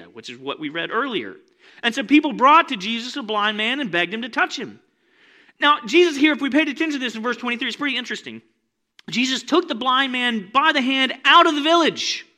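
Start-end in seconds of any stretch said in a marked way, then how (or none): 1.8-12.3 loud, high, driving preacher voice; preaching at full force. Acted. Pastor firing up the congregation, loud preaching. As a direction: preach it big and urgent.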